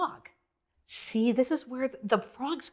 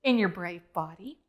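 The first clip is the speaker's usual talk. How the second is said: gentle reassurance; 2 semitones lower than usual. Retold or imitated. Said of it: "He says".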